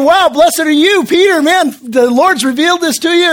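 amazed praise. Retold or imitated. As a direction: gush praise as a retold quote. Excited praise in contrast to rebuke.

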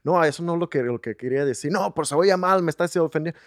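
pleading to dad. Retold or imitated. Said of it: "I'm telling him in Spanish".

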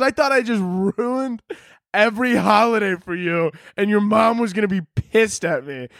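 high, exasperated mock complaint; retold indignation, high voice; mad uncle. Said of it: "he got so mad".

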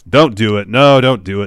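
urgent mock protest, voice pushed up; acted plea. Retold plea before pliers torture.

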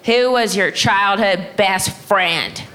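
slow, deliberate customer-service impression; put-on slow phone-rep voice; Sprint rep. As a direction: imitate a rep reading a security question slowly. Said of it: "And Sprint said".

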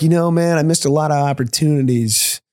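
mock introspective townie.

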